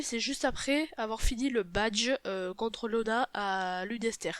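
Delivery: talking through a stuffed nose; nasal from a cold; blocked nose. Real, not acted. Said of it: "je parle un petit peu du nez".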